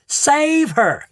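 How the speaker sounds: high panicked scream; mother screaming. A narrator's reading. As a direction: cry out for help. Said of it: "screamed Missus Salt".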